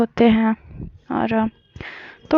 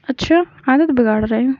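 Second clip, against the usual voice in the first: naughty teasing; faster than usual. Retold or imitated. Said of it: "बड़े naughty वे में बोलती हैं".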